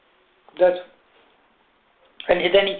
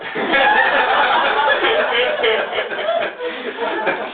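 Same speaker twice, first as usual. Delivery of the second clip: laughing helplessly at the memory; a long, high, breathless laugh; real breathy laughter; 8 semitones higher than usual. Real, not acted. Teller cracking up while telling the audience about the call.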